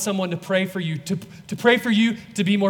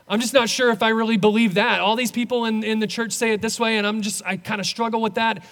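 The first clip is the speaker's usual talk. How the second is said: anxious doubter; 2 semitones higher, faster than usual. Acted. Preacher voices a doubting believer.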